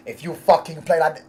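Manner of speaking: put-on half-hearted Greek accent threat; attempted Greek accent. Club owner threatening players in dressing room, faked Greek accent. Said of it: "I can't do a Greek accent".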